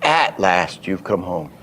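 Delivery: "At last" carries the only stress; single accent. Shown as a demonstration. Teacher showing one accent only, stress on "At last". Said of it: "There's no other accent in the sentence".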